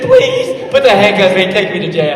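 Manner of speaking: loud, very high begging that drops as it goes; pleading child. Retold or imitated. Son pleading with dad to be taken to jail, begging. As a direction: imitate a kid's shrill, desperate please.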